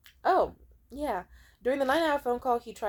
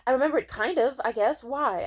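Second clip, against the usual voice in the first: high, unsure stammered reply; mock dodgy half-admission; hesitant mumbling; 5 semitones higher, 4 dB louder than usual. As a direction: play him caught off guard and hedging. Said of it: "he was like".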